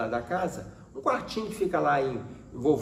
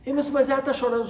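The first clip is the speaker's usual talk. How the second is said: higher, quick protest; pleading mother-in-law; 10 semitones higher, much faster than usual. Retold or imitated. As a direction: lightly imitate a grandmother pleading, pitched up and hurried. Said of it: "Minha sogra". (imitando de leve a sogra suplicante)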